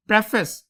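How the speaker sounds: प्रेफेस with a short "preh" first syllable; correct pronunciation. Shown as a demonstration. Teacher introducing the word to students, correct pronunciation of प्रेफेस with "preh". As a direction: say प्रेफेस opening on "preh", not "pree". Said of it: "प्रेफेस होता है".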